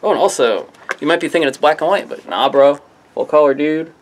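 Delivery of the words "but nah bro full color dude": laid-back surfer dude voice; lightly voiced surfer bro. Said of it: "I don't know why I sound like a surfer".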